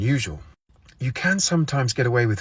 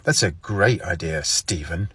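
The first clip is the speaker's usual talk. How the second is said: slow, pointed "Stephen." with a rise; passive-aggressive; 2 semitones lower, slower than usual. Shown as a demonstration. To Steve, calling him Stephen, passive-aggressive. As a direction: lean on "Stephen." with polite venom. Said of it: "used in a passive-aggressive way".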